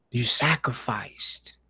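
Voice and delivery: slow, hushed whisper; quiet whispered praise, slowly. Real, not acted. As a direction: let the word fall in a reverent whisper. Praising viewers' dedication.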